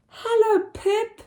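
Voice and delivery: put-on bright high child voice; Posy greeting. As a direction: chirp the greeting as a small child. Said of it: "she said".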